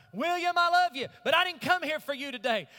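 preaching at full force. Real, not acted. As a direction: call it across the church with force. Shouted to congregants.

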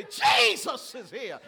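slow, loud, awed; a touch of awe at the dinner table; amazed realisation. Pretend. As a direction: let it dawn on you slowly. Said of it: "and you gonna say".

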